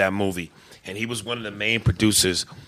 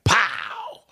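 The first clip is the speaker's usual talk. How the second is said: imitated gunshot; 3 semitones higher than usual. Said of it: "So it was like".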